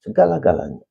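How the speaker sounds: Segala-galanya called out high and loud; God stresses how much he gave; emphatic divine voice. Retold or imitated. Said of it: "Dikatakan begini".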